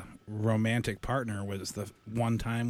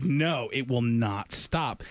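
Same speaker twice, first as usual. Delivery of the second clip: stubborn insistence; much slower than usual. Retold or imitated. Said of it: "She's like".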